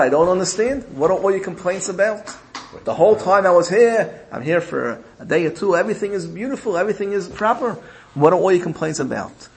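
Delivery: baffled king's protest; puzzled protest. Acted. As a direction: challenge the complaints, pitch lifted in disbelief. King challenges his daughter's complaints.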